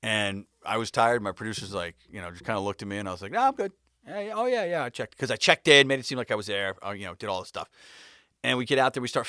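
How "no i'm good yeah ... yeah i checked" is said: overeager fake reassurance. Lying to producer about resting.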